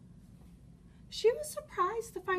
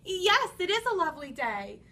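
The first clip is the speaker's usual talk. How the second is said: put-on cheerful little girl; 2 semitones higher, 7 dB louder than usual. Red answers.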